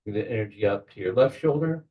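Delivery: measured guiding voice with long pauses; unhurried guide, pausing to let each image settle; guided meditation. Real, not acted. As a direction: talk them gently into a visualization, phrase by phrase. Leads a guided visualization.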